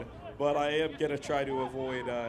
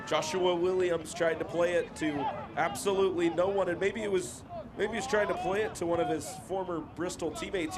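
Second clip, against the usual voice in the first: measured match commentary, lifting on players' names; football commentator calling the play; live play-by-play; 3 semitones higher than usual. Real, not acted. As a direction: follow the ball phrase by phrase.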